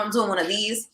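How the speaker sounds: hushed whisper to herself; secret inner thought. Retold or imitated. Keeping her cool outwardly, whispering her private excitement.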